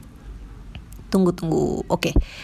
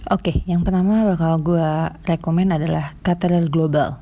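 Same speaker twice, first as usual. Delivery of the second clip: lisp. Real, not acted. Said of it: "gue agak cadel juga ya".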